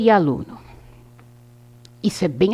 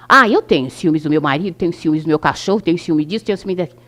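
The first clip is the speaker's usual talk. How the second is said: jealous complaint; 4 semitones lower, faster than usual. Retold or imitated. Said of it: "pessoas falando assim".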